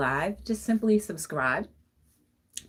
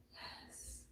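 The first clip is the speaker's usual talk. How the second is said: breathy whispered yes; just breathe the yes; soft whispered agreement; 27 dB quieter than usual. Real, not acted. Whispered affirmation.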